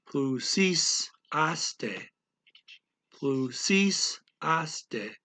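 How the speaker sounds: "plusisaste" slow, with stressed "sis" and separated "aste"; question stress. Shown as a demonstration. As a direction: draw out "plusisaste" syllable by syllable. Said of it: "raise the stress a little bit".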